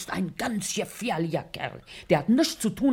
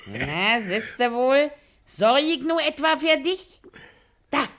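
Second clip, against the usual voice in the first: coaxing; 5 semitones higher, 6 dB louder than usual. Acted. Wife plying husband with schnapps.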